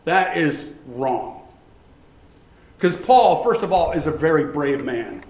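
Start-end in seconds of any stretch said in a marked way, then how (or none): 0.0-1.4 slow firm correction. Retold or imitated. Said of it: "right then I said".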